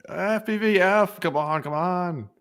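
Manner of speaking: lightly voiced New Yorker pushing impatiently; a hint of New York accent, urging the drone. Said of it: "talking like a New Yorker".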